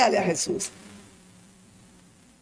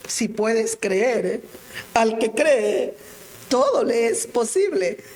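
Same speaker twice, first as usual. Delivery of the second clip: slow Jesus; 3 semitones lower, slower than usual. Acted. Jesus' words repeated.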